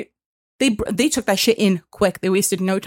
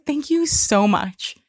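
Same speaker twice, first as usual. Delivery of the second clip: mock gushing thanks; 3 semitones higher, slower than usual. Customer thanks agent after call, mock gushing. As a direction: imitate yourself melting into niceness. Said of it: "I was so nice".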